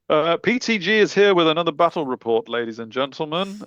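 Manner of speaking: posh English presenter voice; English accent. Acted. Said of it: "in my most English voice".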